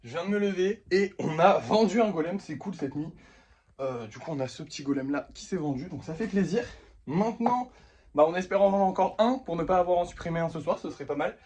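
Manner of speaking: panting after a workout; breathless, catching his breath. Real, not acted. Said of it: "je suis essoufflé". (essoufflé après le sport)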